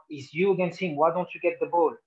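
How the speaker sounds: imitated scolding. Imitating manager scolding a player.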